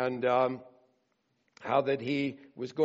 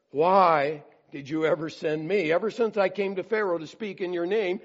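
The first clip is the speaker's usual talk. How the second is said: raised, impassioned lament rising in force; pouring out complaint; 4 semitones higher, 5 dB louder than usual. Retold or imitated. Moses complains to the Lord after the beatings, loud lament. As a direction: cry out to God, half-acted protest. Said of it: "he poured out his complaint to the Lord".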